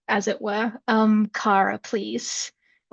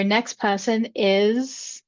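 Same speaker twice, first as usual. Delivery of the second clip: slow, drawn-out lead-in to a name; suspenseful build-up; much slower than usual. Real, not acted. Host holding back the next guest's name, drawn out in suspense. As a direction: stretch it out and leave it hanging. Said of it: "let the anticipation hang a little".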